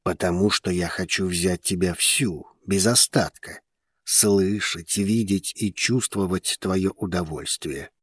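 soft, low male voice; gentle reply. A narrator's reading. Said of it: "мягко ответил Вулкан". (мягкий тихий ответ низким голосом)

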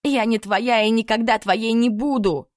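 loud, high defiant cry; shouted defiance. A narrator's reading. Heroine shouts defiance in the sheikh's face, loud. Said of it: "выкрикнула ему в лицо".

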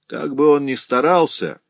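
high, fierce gloating cry; fierce exclamation. Acted. Вдова со свирепым воодушевлением кричит сыну, яростно. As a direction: spit it with savage glee. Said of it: "воскликнула вдова со свирепым воодушевлением".

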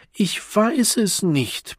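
put-on high, slow, wailing child's voice; bawling child. A crying boy wails at the adult who quizzes him, high and slow. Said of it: "plärrt er".

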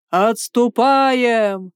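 громкий, протяжный выкрик команды; зычно скомандуй отход. A narrator's reading. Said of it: "выкрикнул Томаш". (командир выкрикивает приказ отступать, громко)

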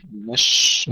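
مش ending in a long airy sh; spreading shin. Shown as a demonstration. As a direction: let the sh in مش spread, still and unbounced. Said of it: "سكون الشين مع الهمس والتفشي". (مش بشين ساكنة مهموسة متفشية)

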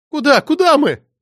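high, loud frightened questions; panicked shriek. Acted. Anna, dragged from the burning room, shrieks in fear. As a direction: shriek it while fleeing the fire.

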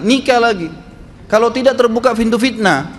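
a firm ustadz giving a final answer. Retold or imitated. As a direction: state it flatly, no room for doubt. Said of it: "Dengan tegas saya bilang".

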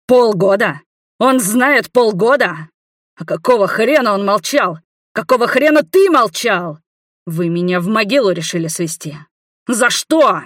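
high, loud yelling at full force. A narrator's reading. Igor yells at his nephew over the secret. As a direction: rage at the nephew. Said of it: "орал, что есть мочи".

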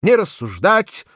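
put-on loud, high old voice; hoarse old man. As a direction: repeat it like a drunk old boss. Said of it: "старческий охрипший голос".

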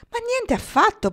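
loud, high-pitched denial; emphatic protest. A narrator's reading. Pocket denies Marnie's accusation, protesting loudly. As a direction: burst out in protest. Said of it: "protestò Pocket".

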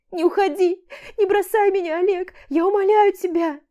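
высоко и громко, дрогнувшим голосом; молить, рыдая; очень жалобно. A narrator's reading. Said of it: "Произносит очень жалобно, дрогнувшим голосом". (Аля на коленях умоляет Олега не уходить)

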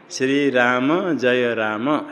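every final अ sounded: shree raa-ma, ja-ya raa-ma; Sanskrit final vowels. Shown as a demonstration. Teacher models Sanskrit, श्री राम, जय राम with final अ voiced. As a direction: say श्री राम, जय राम slowly, voicing the vowel after य and म. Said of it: "ऐसा ही".

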